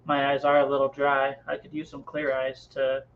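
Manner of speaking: flat, emotionless TV ad read; deadpan eye-drop commercial, monotone throughout. Pretend. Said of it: "I can do Clear Eyes commercials".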